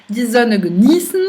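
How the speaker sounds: "genießen" stressed on "nie", not "ge"; stress off first syllable. Shown as a demonstration. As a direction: keep "ge" unaccented in "genießen". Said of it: "elle est autre part dans le verbe".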